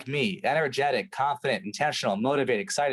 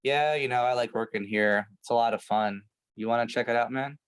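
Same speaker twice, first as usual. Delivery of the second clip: lower, listless sales invite; half-hearted pitch; 3 semitones lower than usual. Shown as a demonstration. Setter inviting prospect to work there, unconvincing and flat. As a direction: say it like you don't mean it. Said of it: "And if you're like".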